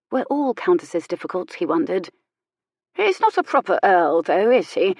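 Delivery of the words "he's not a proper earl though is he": sniffy. Acted. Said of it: "she sniffed".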